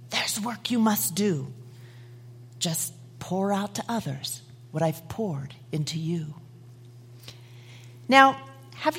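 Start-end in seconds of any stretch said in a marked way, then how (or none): 0.1-6.3 soft, hushed and kind; kindly spoken. Acted. Master sending the clay vessel out, softly kind. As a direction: speak gently to the mended pot. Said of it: "He spoke to it kindly".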